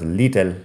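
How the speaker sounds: "little" mispronounced as LEE-tel; "little" with a long EE and hard T; wrong long I. Shown as a demonstration. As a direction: say "little" with a Spanish EE vowel. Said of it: "no es I".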